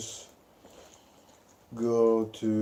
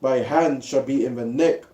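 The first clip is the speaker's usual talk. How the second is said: scripture reading; 2 semitones higher, 3 dB louder than usual. Acted. Reads Genesis 49 aloud.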